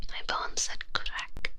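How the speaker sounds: whispered "crack" drawn out slowly; odd pronunciation. Real, not acted. Whispering that bones said "crack", pronounced oddly and slowly. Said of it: "I don't know why I said it like that".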